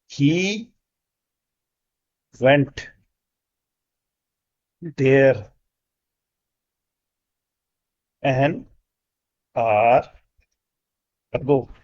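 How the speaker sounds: very slow, pausing after every word; word by word dictation. Shown as a demonstration. Teacher dictating the corrected sentence, one word at a time. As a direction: give each word time to be written. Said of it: "तो sentence बनेगा".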